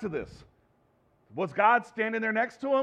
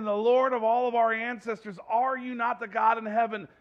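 a loud, higher-pitched plea to God; pleading prayer; 4 semitones higher, 3 dB louder than usual. Acted. Jehoshaphat crying out to God for rescue, loud pleading prayer. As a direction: cry out to heaven for help. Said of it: "And he's saying".

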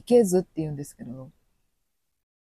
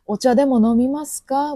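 loud, higher sugary offer; polite offer; 7 semitones higher, 7 dB louder than usual. Retold or imitated. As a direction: offer tea while meaning leave. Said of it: "さよならの挨拶". (大きく高い甘い勧め)

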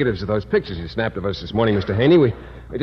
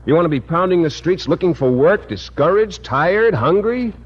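rising dramatic plea; 5 semitones higher than usual. Acted. To Miss Brooks, scaring her into the scheme, climbing plea. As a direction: voice climbing higher word by word, building to a peak. Building pitch of dire picture.

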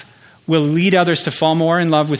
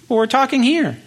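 indignant protest; 8 semitones higher than usual. Acted. Arguing back at God's call.

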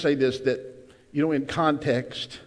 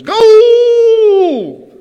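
long, very high and loud goal yell; announcer goal cry; 18 dB louder than usual. Retold or imitated. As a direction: hold the goal call like a sportscaster. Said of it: "And the announcer goes".

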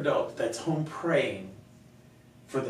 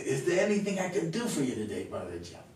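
put-on Dan's accent; 5 semitones higher than usual. Church volunteer offering his pastor help, imitated accent. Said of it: "he had an accent like this".

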